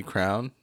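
slow "crown" for crayon; Southern pronunciation. Shown as a demonstration. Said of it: "my Southern accent to her".

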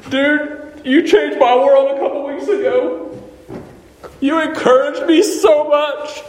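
a preacher getting carried away with joy; fired up. Real, not acted. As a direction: let the passion lift the pitch and volume. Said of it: "Sorry, I'm getting a little fired up".

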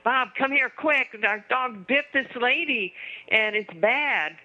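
acted yell, not at full volume; retold urgent yell. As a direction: imitate an alarmed wife calling for help. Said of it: "she's yelling for her husband".

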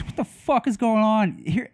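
a furious dad storming in; pissed-off demand. Retold or imitated. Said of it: "Hiram looks pissed".

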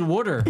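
"water" said as "wooder"; rounded short vowel in "water"; regional "water". Shown as a demonstration. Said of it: "Oh, dude, I said water".

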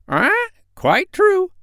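very high squawky parrot; a proud, cheeky parrot. Acted.

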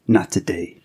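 breathy unvoiced whisper. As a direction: breathe it like a haunting voice. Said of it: "that insidious whisper".

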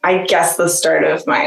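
ordinary delivery

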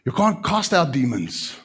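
ordinary talk, nothing marked

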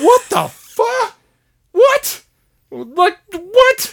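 very high, loud, slow disbelieving shriek; stunned outrage. Retold or imitated. Gamer retelling his reaction, shrieking what the fuck. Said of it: "I'm like".

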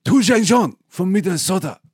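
hammed-up Asian accent; comic Asian-accent impression of the name; mock Asian accent. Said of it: "it would be more like this".

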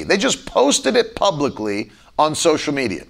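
ordinary delivery

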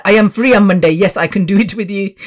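mother imitated with an Indian accent; mock Indian accent. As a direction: put on an Indian accent as mum. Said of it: "I just like to do the Indian accent".

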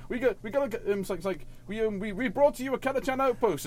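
put-on jokey French-accented delivery. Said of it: "like a French Canadian".

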